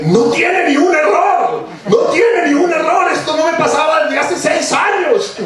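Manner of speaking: very high, drawn-out shriek; imitated screaming. Editor rising from her desk to tell the boss, screaming. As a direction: mimic an editor shrieking each word out slowly. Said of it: "se levantó gritando del escritorio".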